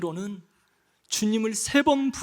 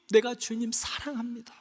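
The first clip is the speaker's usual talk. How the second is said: softer take, 내가 leaned on; soft confession; 3 semitones lower, 8 dB quieter than usual. Pretend. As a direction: murmur the vow tenderly. Repeated love confession.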